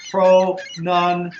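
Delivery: slow "pronunciate", each syllable separate. Shown as a demonstration. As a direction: break "pronunciate" into pro-nun-ci-ate, slowly. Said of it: "How do we spell pronunciation".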